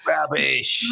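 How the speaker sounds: put-on British-accented single word. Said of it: "You said it in a very British".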